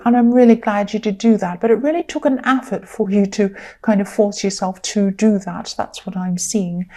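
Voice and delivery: tired, croaky voice; croaky voice from tiredness. Real, not acted. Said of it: "excuse my croaky voice, I'm a bit tired".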